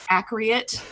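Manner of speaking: "accurate" said as ak-ree-it; mispronounced accurate. Real, not acted. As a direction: repeat the slip, "accurate" with an ee before the end. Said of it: "That's how you say it in".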